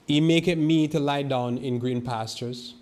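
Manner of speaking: slow, loud and ringing, like reading from the pulpit; loud scripture proclamation. Shown as a demonstration. Preacher reads Psalm 23 aloud to the church, slow and loud. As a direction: proclaim the psalm slowly to the congregation. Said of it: "It sounds so loud".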